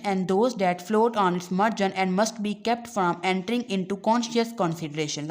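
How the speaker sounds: reading the English line slowly and deliberately; slow textbook reading. Acted. Teacher reading the textbook aloud to students, slow and deliberate. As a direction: read it out word by word for the class.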